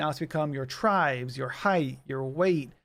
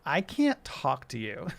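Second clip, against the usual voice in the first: snobby mock voice. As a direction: look down your nose at them. Mocking a snobby app user.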